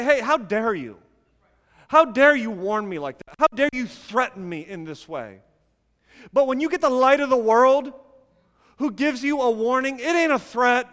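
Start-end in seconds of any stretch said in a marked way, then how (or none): 0.0-5.4 mildly mock affronted; acted indignation. Listener answering a peer's warning, acted indignation. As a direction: push back as if offended.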